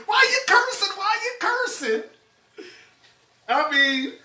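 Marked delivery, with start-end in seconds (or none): 0.1-2.0 laughing mimicry. Repeating owner while laughing.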